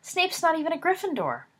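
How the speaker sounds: appalled at the very idea; indignant protest against a bet on Snape. A narrator's reading. James protesting Peter's bet.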